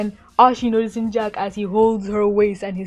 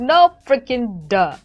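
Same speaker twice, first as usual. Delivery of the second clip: sarcastic retort; 3 semitones higher, 5 dB louder than usual. Retold or imitated. Her sarcastic reaction.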